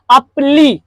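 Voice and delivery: अपली slowly as अप-ली, cut off from the rest; first syllables isolated. Shown as a demonstration. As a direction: sound out just अपली in two beats. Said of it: "अप पहले बोलेंगे". (अपली को अलग करके, धीरे)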